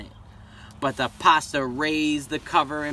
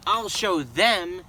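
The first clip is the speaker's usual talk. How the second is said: muttered vow; 3 semitones higher, 3 dB louder, slower than usual. Acted. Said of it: "he said to himself".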